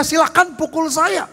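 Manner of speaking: passive, limp offer to the devil; meek invitation to be hit. Pretend. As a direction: hand yourself over meekly, no fight. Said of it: "jangan dia".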